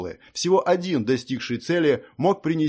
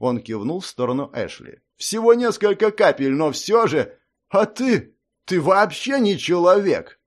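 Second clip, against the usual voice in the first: hunter accusing; 5 semitones higher, 4 dB louder than usual. A narrator's reading. Hunter unmasking the impostor, loud and menacing. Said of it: "Хантер accuses the impostor".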